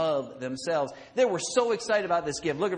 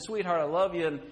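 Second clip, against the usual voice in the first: loving husband; 4 semitones lower, faster than usual. Retold or imitated. Husband giving wife flowers, tender and loving. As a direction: tell her sincerely you love her. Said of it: "the attitude with which the gift was given".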